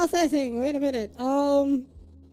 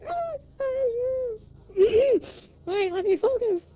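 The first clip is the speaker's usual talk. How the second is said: about to cry; 6 semitones higher, 7 dB louder, slower than usual. Real, not acted. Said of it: "I'm gonna start crying".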